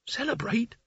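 high, soft incredulous "Celebrate?". A narrator's reading. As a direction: question "Celebrate?" in disbelief. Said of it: "voices inside his head".

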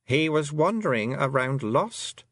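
slow, smooth, soothing falseness; calm queen. A narrator's reading. A fairy queen calmly excusing the theft, slow and smooth. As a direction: calmly justify yourself. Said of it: "said the Queen calmly".

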